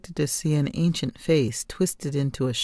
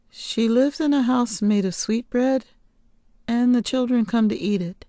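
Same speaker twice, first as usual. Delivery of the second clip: put-on eager child telling; 8 semitones higher than usual. Girl recounts witch legend.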